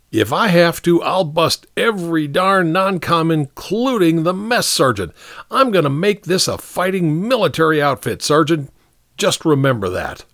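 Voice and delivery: high, forceful officer; determined, angry captain. Acted. Captain warning the sergeant he'll bust non-coms, forceful. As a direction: lay down the law to a subordinate.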